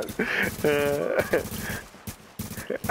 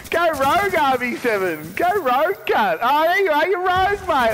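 high, excited goading call; 5 semitones higher, 3 dB louder than usual. Real, not acted. Gamer goads a rival to go rogue, excited. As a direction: egg the rival on eagerly.

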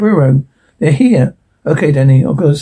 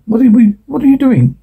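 higher, slightly raised acted yell; mild yell; 6 semitones higher than usual. Character protesting as they are made to leave, mild yell. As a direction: raise the pitch in a startled-sounding protest.

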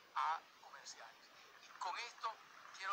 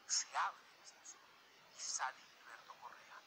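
awed whisper; 5 semitones lower than usual. Retold or imitated. Repeat building awe.

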